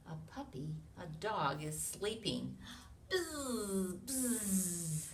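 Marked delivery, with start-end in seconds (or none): 3.1-5.1 buzzing. Acted. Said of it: "he's making a loud noise".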